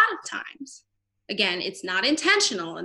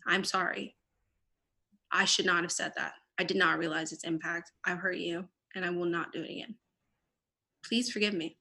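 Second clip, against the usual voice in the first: sincere apology; 3 semitones lower, 6 dB quieter than usual. Shown as a demonstration. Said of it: "First, take accountability".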